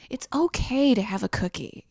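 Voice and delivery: unvoiced confiding whisper. Whispering advice to a gym bro about cookies. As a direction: whisper it like a secret tip.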